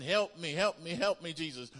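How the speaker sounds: high, loud begging repeats; mock pleading. Preacher mocking begging prayers, high pleading voice. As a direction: beg like a needy churchgoer. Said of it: "people want Jesus to come down and".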